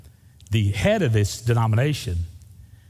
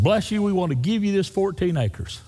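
higher-pitched, mildly acted benefactor; mock-generous offer; 7 semitones higher than usual. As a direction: imitate a donor bestowing a gift. Acts out the church donors' offer.

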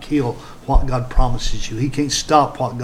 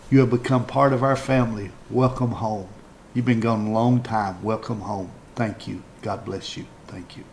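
tender welcome; 3 semitones lower than usual. Real, not acted. Pastor welcoming new converts into the family, tenderly. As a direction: sink gently into a hushed, grateful close.

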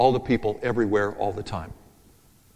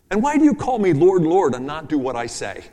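slightly raised, reproachful question; a hint of Jesus scolding his hearers; lightly voiced pleading rebuke; mild rebuke of Jesus; 4 semitones higher, 4 dB louder than usual.

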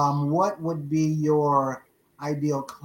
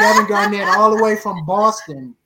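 a little louder, choked with tears; tearful; 3 semitones higher, 6 dB louder than usual. Real, not acted. Emotional tribute to Kevin Garnett, tearful. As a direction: push the name out through tears. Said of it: "I told myself I wasn't gonna get emotional".

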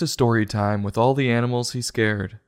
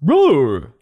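mock roar; 3 semitones higher, 6 dB louder than usual. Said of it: "and yells".

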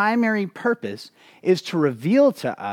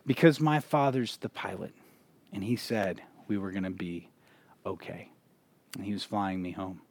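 put-on little girl's answer; 9 semitones lower, 10 dB quieter than usual. Little girl's answer, told softly.

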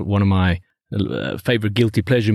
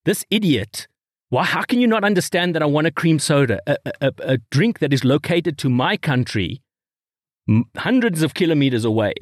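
mildly indignant mock rant, pitched up; almost aggressive; 4 semitones higher than usual. Customer berating waiter over cream soda, mock aggressive. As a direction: imitate an exasperated customer, stammering with indignation. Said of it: "he's now almost getting aggressive as if".

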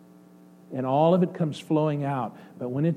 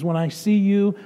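lifted, louder opening of a building line; joyful; 4 semitones higher, 4 dB louder than usual. Acted. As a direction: start the joy climbing. God's joy builds with each repeat.

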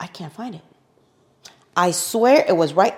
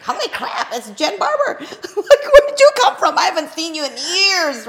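much higher and louder, laughing; excited surprise; 9 semitones higher, 6 dB louder than usual. Retold or imitated. She sees Jen Barber at the door, squealing. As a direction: squeal at seeing an old friend. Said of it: "I looked up and go".

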